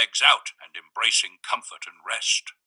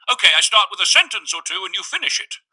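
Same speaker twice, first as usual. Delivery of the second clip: higher, upbeat character voice; the man's voice; 9 semitones higher, 7 dB louder than usual. A narrator's reading. Visitor proposing a game to the narrator, high and upbeat. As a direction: chirp it up high and eager.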